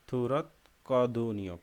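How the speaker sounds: slow, careful থুরত কদনীয় with a plain ক; Korean pronunciation. Shown as a demonstration. Teacher repeats the Korean phrase for students, slow and clear. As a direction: drill থুরত কদনীয় slowly for learners. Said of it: "বোঝা গেছে?".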